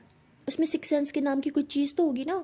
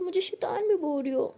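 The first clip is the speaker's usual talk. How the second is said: pouty whine; 5 semitones higher than usual. Acted. Crying girlfriend sulks at being called devil.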